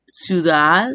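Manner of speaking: "ciudad" with DAD held long; stressed syllable shown. Shown as a demonstration. Teacher showing the tonic syllable, DAD of "ciudad" stretched. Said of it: "se pronuncia con mayor intensidad".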